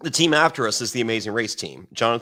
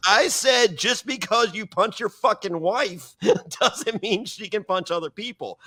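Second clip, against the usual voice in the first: mock shouted threat; 9 semitones higher than usual. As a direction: shout it back at Rogan like a challenge. The speaker yelling at Rogan.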